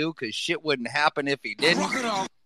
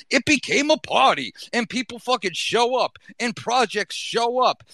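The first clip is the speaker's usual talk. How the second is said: hyped up; 6 semitones higher than usual. Real, not acted. Hyping the party night.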